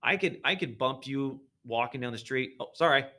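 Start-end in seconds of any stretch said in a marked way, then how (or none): 2.6-3.1 quick, louder throwaway sorry; offhand sorry to a passer-by; casual apology. Acted. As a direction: toss off an apology in passing. Acted casual bump in the street.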